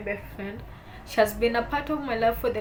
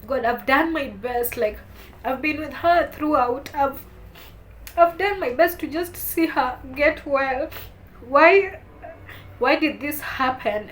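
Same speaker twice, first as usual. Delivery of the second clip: crying out to God; 3 semitones higher, 4 dB louder than usual. Retold or imitated. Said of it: "I could tell God".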